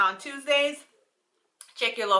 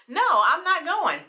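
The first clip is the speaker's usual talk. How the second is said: laughing mock reply; 9 semitones higher, 4 dB louder than usual. Mocking what he hoped she'd say.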